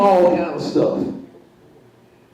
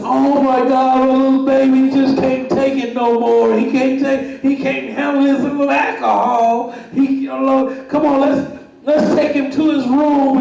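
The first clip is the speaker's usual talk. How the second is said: raised mock-caring voice, higher; mocking the wrestlers; 5 semitones higher than usual. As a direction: coo over the drunk little guy, pitched up. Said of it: "They said".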